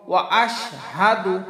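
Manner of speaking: ওয়া আশহাদু with a clear break before আশহাদু; separate wa and ashhadu. Shown as a demonstration. Teacher models the right split for learners. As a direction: keep the alif of আশহাদু, not ওয়া শাহাদু. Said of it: "ওয়া শাহাদু বলবো না".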